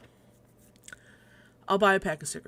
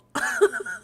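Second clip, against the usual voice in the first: short high laugh; 5 dB louder than usual. Real, not acted. Laughing at bad air news.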